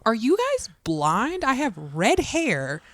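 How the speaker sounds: slow, high, incredulous listing; mock exasperation. Child in costume answering clueless adults, exasperated. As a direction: spell it out slowly for clueless people. Acting out exasperated inner reply.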